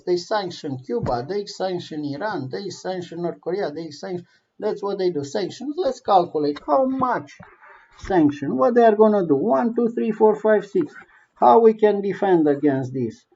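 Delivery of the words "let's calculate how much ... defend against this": higher, louder cold counting; scheming Putin. Pretend. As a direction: plot it out like a villain. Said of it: "voicing Putin's planning".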